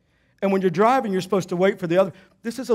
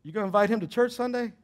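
inner voice; 2 semitones higher, 6 dB quieter than usual. Retold or imitated. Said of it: "something inside".

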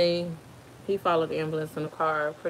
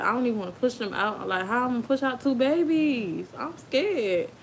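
retold fearful protest, climbing higher; scared; 5 semitones higher than usual. Mother-to-be dreading pushing out two babies, scared. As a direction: re-enact mild dread, pitch rising as it goes.

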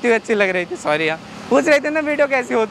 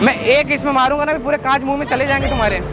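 heated, menacing prank act; feigned threat. Pretend. Prankster threatening a fan in the car, feigned anger. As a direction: threaten them as if losing patience.

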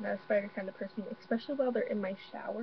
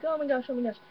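retold panic, a bit higher and louder; mildly panicked, replaying the freak-out; 4 semitones higher, 4 dB louder than usual. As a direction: reenact a mild freak-out. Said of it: "like, freaking out".

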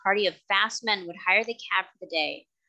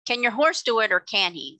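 blustering man; 2 semitones higher, 4 dB louder than usual. Acted. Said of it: "said the blustering man".

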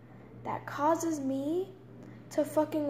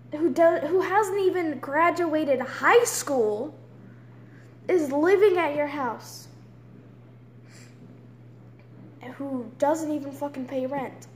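angry rant. Real, not acted. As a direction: list every grievance with real anger. Ranting about brother to mom.

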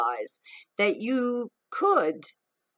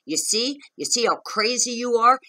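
raised, higher mock yell of an angry partner; retold screaming; 3 semitones higher, 4 dB louder than usual. Retelling her partner screaming at her, higher and louder. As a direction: shout it back as he did, pitched up. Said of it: "start screaming".

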